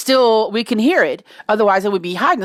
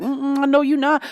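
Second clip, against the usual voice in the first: lightly voiced sassy dog, higher pitch; 5 semitones higher than usual. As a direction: give the dog a touch of sass. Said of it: "I think Yaya's black".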